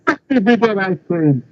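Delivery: put-on character voice, slowed down; imitated film character. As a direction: drag out the quoted line. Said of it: "the one in the that was like".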